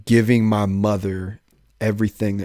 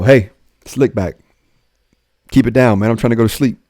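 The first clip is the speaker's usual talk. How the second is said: annoyed; 5 dB louder than usual. Retold or imitated. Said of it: "I'm annoyed now".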